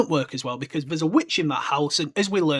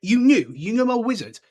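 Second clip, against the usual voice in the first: mock outraged Hagrid; 6 semitones higher, 4 dB louder than usual. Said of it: "He's like".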